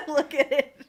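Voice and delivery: high, very loud, hammed-up yell; mock angry shout. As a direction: build to a slow over-the-top bellow. Mock outburst at the painting.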